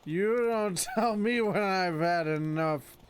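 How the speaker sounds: lightly voiced surfer dude, slow and drawn out; a hint of a laid-back California surfer; surfer dude horse. Horse Roach talking back to his rider, lightly voiced laid-back surfer. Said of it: "Doesn't Roach sound like a surfer dude from Cali?".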